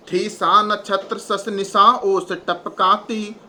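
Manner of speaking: slow, measured recital of the verse line; poem recitation. Acted. Teacher reciting the moonlit-night verse to the class, slow and measured. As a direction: recite it slowly, weighing each word.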